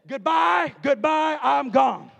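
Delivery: loud, abrupt goodbye shout. Retold or imitated. Preacher fleeing a flirting woman, loud shouted goodbye. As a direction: bark it out as you flee. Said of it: "I said".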